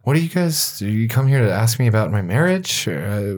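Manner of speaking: polite irritation. Acted. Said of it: "elf annoyed at questions".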